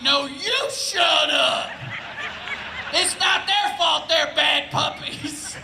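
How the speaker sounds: hammed-up outraged comeback; yelling back. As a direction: holler back at the neighbour, slowly. Acted yelling back at neighbour.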